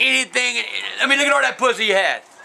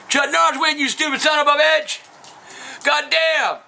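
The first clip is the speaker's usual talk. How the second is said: raised pitch, exasperated insult; pitched-up indignant retort; indignant outburst; 4 semitones higher than usual. Real, not acted. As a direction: fire back at a stupid question. Indignant at a dumb question.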